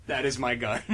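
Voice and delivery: deep gruff voice. Acted. Deep voiced character reading.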